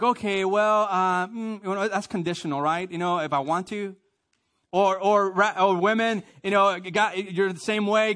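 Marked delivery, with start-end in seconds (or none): 0.0-3.9 mock excuse-making. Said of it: "And we're like".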